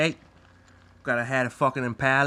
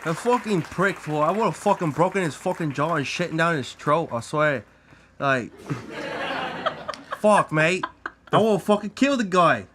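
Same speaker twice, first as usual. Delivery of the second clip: mock Australian; 4 semitones higher than usual. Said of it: "you guys have some accents going on".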